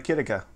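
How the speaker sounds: Akitika with a short i in "kit"; own pronunciation. Shown as a demonstration. Host settling on his own name for it, own pronunciation. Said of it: "I call it".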